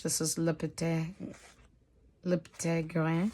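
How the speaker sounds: softly says 'Le Petit Grain' with a French 'Petit' and 'Grain'; French pronunciation. Shown as a demonstration. Vlogger reading a French book title to viewers, soft French try. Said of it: "It is sounding so bad speaking French".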